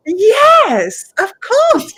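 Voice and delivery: high, loud, eager grown-up act; put-on adult voice. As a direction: sound like a kid playing the adult. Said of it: "I put on my adult voice".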